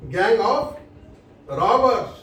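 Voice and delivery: gang of robbers, of lifted; stress on of. Shown as a demonstration. Teacher correcting students, stressing of. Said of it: "वो group नहीं है".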